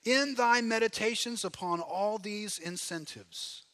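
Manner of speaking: solemn Puritan quotation. Acted. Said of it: "He says".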